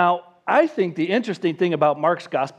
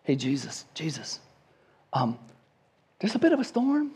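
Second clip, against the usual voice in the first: gentle, trusting request; 5 semitones higher than usual. Retold or imitated. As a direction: ask a friend for help with faith. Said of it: "they didn't wake him up and say".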